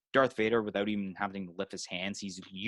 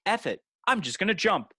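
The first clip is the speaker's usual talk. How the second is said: mock reckless Luke; 10 semitones higher, 4 dB louder than usual. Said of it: "Luke's like".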